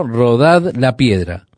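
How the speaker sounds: slow, deliberate repeated order; insist, each word weighed; slow firm command. Retold or imitated. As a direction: Rodad la piedra said slowly and firmly. Jesus repeats order over objection.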